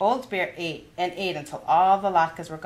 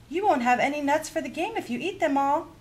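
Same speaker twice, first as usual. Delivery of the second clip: high, gruff bear growl; 12 semitones higher than usual. A narrator's reading. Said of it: "growled the old bear".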